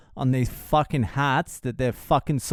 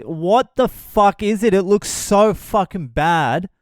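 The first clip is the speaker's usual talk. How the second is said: mock wife; 5 semitones higher, 4 dB louder than usual. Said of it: "She's like".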